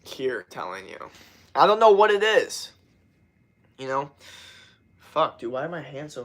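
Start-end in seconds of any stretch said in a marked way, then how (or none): 0.0-1.1 lower, softer, slow delivery; low-key telling. Shown as a demonstration. Streamer showing the less engaging delivery, low-key. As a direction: say it laid-back with little push. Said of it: "instead of".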